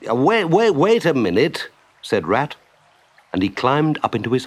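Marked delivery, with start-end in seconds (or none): 0.1-1.7 raised, stuttered call to wait; halting protest. Acted. Rat stopping Mole from starting at once, protesting. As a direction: break in with repeated waits.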